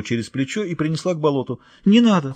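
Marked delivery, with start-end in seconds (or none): 1.8-2.3 sobbing plea. Acted. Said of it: "всхлипывала Летиция".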